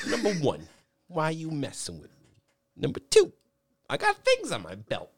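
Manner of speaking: a mild mock of the kid's solemn counting; lightly voiced odd classmate; imitating the weird kid. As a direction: list it off like a self-serious kid. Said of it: "I'm quoting".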